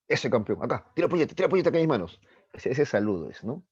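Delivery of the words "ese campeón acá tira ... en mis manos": lightly voiced upbeat dad, higher pitch; playful dad calling for a fist bump; dad greeting son. Dad greets his son home from work, hearty greeting. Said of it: "y el papá le dice".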